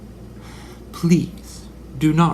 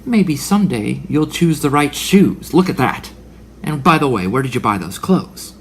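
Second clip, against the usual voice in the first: put-on valley girl snark; 2 semitones higher, 6 dB louder than usual. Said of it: "And she's saying".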